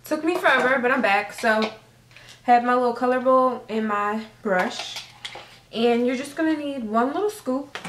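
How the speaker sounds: out of breath from running up the stairs; breathless, winded talk. Real, not acted. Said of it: "I'm out of breath running up the stairs".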